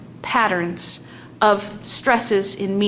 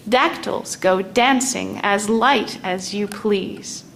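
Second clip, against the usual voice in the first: lilting beat on DANCING and LIGHT; dancing dactyls. Shown as a demonstration. Teacher reciting a dactyl example line. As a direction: skip through it lightly. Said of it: "the dactyl goes strong".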